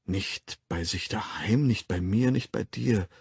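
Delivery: item by item, tune rising on "daheim" and "mir"; listing off. A narrator's reading. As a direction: count places off, closing with a fall on "dir". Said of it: "zählte Bernard auf". (aufzählend)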